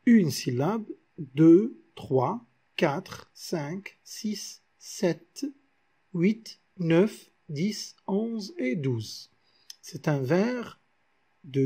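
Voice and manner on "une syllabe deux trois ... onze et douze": counting syllables. Shown as a demonstration. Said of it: "nous avons ici".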